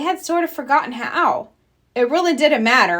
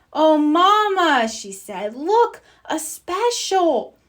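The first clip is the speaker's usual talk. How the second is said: eager; 7 semitones higher, 3 dB louder, slower than usual. Acted. Sister spots TV ad.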